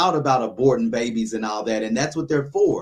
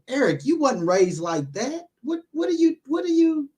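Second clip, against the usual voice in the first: scolding inner voice; 12 semitones higher than usual. Retold or imitated. Man voicing his own conscience, rising to incredulous high pitch. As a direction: voice jumps high and incredulous on what are you. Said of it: "I had to really think, like".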